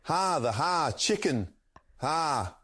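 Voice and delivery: chef voice losing steam, ha after every word; fading Gordon with ha. Acted. Streamer's chef voice trails off as the request drags on. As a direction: let the ha bits peter out. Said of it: "He lost enthusiasm at the end".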